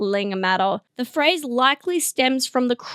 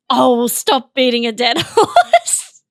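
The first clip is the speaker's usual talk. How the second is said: mock wrong usage; 6 dB louder than usual. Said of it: "No one's saying it like that".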